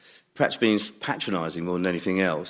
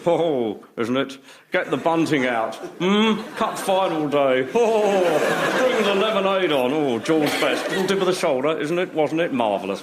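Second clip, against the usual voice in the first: florid football manager; 7 semitones higher than usual. Retold or imitated. Manager reminiscing about cup final, florid gushing. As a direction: gush over the match like an old manager. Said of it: "impersonation of ... a football manager".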